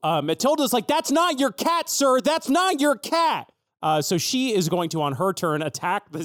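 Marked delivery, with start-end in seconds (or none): 0.9-3.5 higher, slow indignant voice; raised, prim objection to the zebra; Matilda protesting. Acted. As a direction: correct the stranger primly, drawn out.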